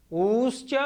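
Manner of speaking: ऊश्च with the ऊ held about twice as long; long vowel take. Shown as a demonstration. Teacher to students, ऊश्च with a doubled ऊ. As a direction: stretch the ऊ in ऊश्च to double length. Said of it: "उकालो झ्रस्व दीर्घ पुलुतः".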